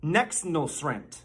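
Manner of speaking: slow demonstration of "Nexnulsrent" as one slurred word; teaching pronunciation. Shown as a demonstration. Mock teacher introducing a Bidenese word, slow pronunciation demo. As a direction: model "Nexnulsrent" slowly, syllables run together. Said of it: "The first word I'm going to teach you".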